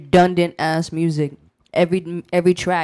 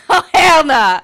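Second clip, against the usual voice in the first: loud, high burst through laughter; real laughing outburst, pitched up; laughing refusal; 10 semitones higher, 9 dB louder, slower than usual. Real, not acted. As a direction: crack up while refusing outright.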